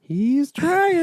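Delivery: squeaky high cartoon voice. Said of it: "Mr. Meeseeks impression again".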